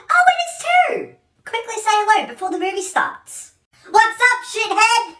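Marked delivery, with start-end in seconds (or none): 0.1-3.5 a hint of a cheerful mom; lightly voiced chirpy mother. Mom character voice.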